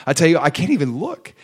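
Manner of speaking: imitating a jittery, scared son; nervous, scared. Scared son on the train to passenger, nervous. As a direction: voice the nerves, mildly acted. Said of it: "nervous, he's scared".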